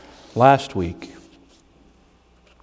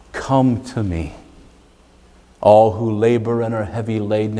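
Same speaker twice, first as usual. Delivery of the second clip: hushed, gentle reading; tender scripture reading. Acted. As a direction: offer the verse gently to the weary. Reads gentle invitation verse.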